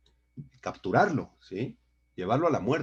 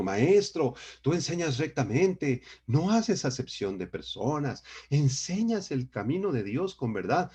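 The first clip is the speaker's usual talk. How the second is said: lightly acted praise, phrase by phrase; mock flattery; 3 semitones higher than usual. Preacher quoting the spies who meant to flatter Jesus, mock flattery. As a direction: quote the flatterers with a lilting, slightly raised voice. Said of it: "Quisieron halagar a Jesús".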